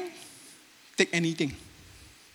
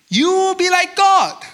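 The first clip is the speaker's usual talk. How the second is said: serpent voice; 12 semitones higher, 8 dB louder than usual. Retold or imitated. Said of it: "But he also say".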